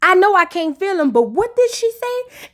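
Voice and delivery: lightly voiced shocked reality star; mock disbelief. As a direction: ask it like you can't believe it. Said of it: "she said".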